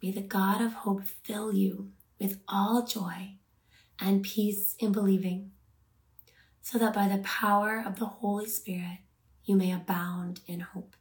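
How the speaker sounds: measured Bible verse reading, phrase by phrase; contemplative, unhurried scripture. Real, not acted. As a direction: read the verse deliberately, pausing to let it land. Reads scripture for meditation.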